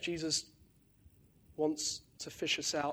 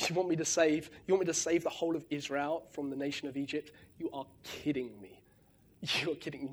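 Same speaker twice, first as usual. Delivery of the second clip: mock Moses balking at the task; incredulous Moses; 3 dB quieter than usual. Moses protesting to God in disbelief, quietly. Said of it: "where Moses says".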